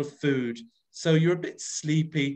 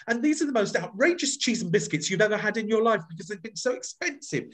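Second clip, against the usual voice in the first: outrage; 6 semitones higher, faster than usual. Shown as a demonstration. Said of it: "can you get outrage into your voice".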